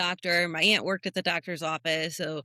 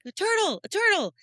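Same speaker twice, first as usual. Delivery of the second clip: teasing cousins; 12 semitones higher, 3 dB louder than usual. Retold or imitated. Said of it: "They're like".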